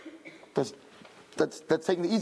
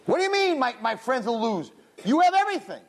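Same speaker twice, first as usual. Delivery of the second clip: incredulous retort; 4 semitones higher than usual. Retold or imitated. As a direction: protest that he lacks nothing. Retelling answer to Hashem.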